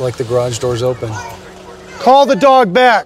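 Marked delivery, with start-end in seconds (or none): 2.0-3.1 loud, high, drawn-out order; real police shout, each word stretched; shouted command. Real, not acted. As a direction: yell it slowly so it carries. Officer confronts loose dog, suspect.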